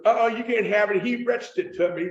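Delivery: put-on country accent with RETCHED for reached; country woman's dialect. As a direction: imitate a Harlan local refusing. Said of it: "she goes".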